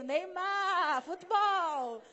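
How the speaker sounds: re-enacted eager boast; excited name-dropping. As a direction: call it out like a football fan. Name-dropping to convince a guard.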